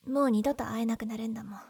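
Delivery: breathy, sorrowful whisper, trailing into a falling line; sad whisper. Acted. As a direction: whisper it as if this is goodbye forever. Sad farewell to a loved friend.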